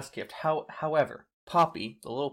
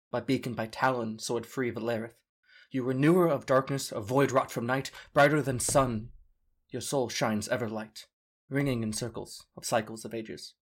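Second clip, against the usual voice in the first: measured rhyming verse; poem recitation. Acted. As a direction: recite it like a bard.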